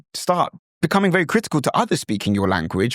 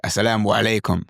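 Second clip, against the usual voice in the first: Arabic pronunciation; faster than usual. Shown as a demonstration. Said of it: "That's how Arabs say it".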